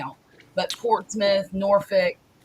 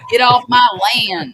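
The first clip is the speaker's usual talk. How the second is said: loud, high mock shout; mock yell; 5 semitones higher, 9 dB louder than usual. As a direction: shout it off the porch. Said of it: "it don't look good on".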